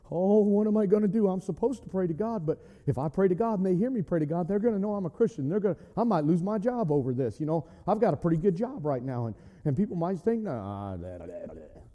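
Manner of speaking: soft, hesitant fretting; understated imitation of anxious dithering; mock worrying. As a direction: fret quietly, trailing away into mumbles. Acting out a worried, hesitant Daniel.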